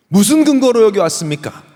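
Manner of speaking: loud, high demanding question; demanding interrogation. Acted. Angel questioning the robber at heaven's gate, demanding. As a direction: press hard for a justification.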